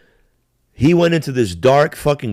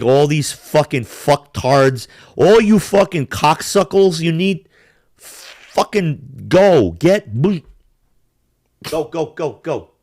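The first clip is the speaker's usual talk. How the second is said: angry rant; 4 semitones higher, much slower than usual. Real, not acted. Ranting at celebrities to leave.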